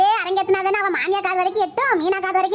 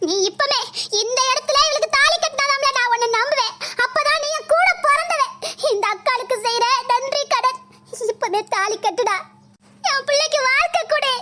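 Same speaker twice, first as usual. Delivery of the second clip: staged urging; 3 semitones higher than usual. Acted. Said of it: "என்ன நாடகம் ஆடில".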